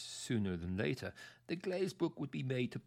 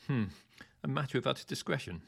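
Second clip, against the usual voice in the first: mock the phrase a bit faster, with a snort; snorting mockery; 4 semitones higher, faster than usual. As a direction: scornfully throw "a matter of utter discretion" back. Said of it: "snorted Cruikshank".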